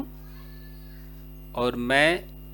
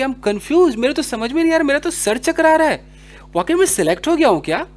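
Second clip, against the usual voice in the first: overwhelmed disbelief; 6 semitones higher, 4 dB louder than usual. Acted. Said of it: "या आपको कोई ऐसी खबर मिल गई हो".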